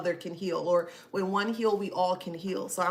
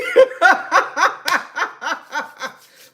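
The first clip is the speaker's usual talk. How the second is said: loud laugh; 10 semitones higher, 15 dB louder than usual. Real, not acted. Laughing while starting the reading.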